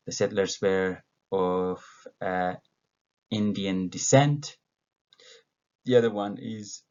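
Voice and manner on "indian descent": "descent" corrected, weight moved to its second syllable; stress on second syllable. Shown as a demonstration. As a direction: finish "Indian descent" with the end of "descent" stressed. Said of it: "the stress is on the second syllable".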